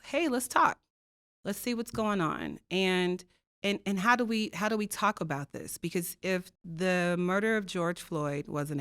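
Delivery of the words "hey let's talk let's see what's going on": friendly invitation. Retold or imitated.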